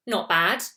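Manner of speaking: "Not bad" said evenly, small lift on "bad"; "Not bad", middling and matter-of-fact; neutral, okay "Not bad". Shown as a demonstration. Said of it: "meaning, you know, it was okay".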